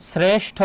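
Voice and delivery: শ্রেষ্ঠ said by itself with a clear close "e"; close-e demonstration. Shown as a demonstration. Teacher showing students an unchanged vowel, close-e demonstration. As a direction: keep the vowel of শ্রেষ্ঠ a pure "e". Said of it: "এর উচ্চারণ এ যখন থাকবে".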